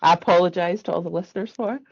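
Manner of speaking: hoarse, croaky voice from a sore throat. Real, not acted. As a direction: speak through a real croak. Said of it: "croaky voice".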